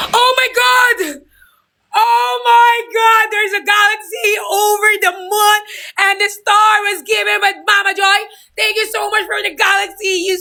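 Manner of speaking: very high shrieking joy; crying-out excitement over a huge gift; ecstatic shout. Real, not acted. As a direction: scream it out, overwhelmed with delight. Overjoyed at big gift.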